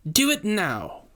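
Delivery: high, sharp command; commanding witch. A narrator's reading. Witch ordering Rainey to strike, high commanding voice. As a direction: order it like a cruel mistress. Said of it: "the beast of a woman commanded".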